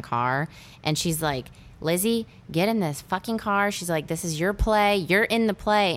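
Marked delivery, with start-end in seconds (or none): 1.8-3.7 higher-pitched mock scolding; imitated screaming mom. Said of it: "her screaming at her daughter". 4.1-6.0 higher-pitched retold arguing; acted exasperation. Acted quarrel between mother and daughter.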